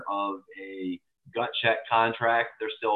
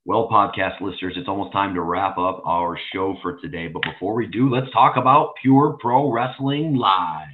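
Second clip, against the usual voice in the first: goofy announcer voice; 5 dB louder than usual. Pretend. Podcast host wrapping up the show, goofy announcer voice. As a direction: show announcer voice building louder. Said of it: "are you gonna do your goofy announcer voice".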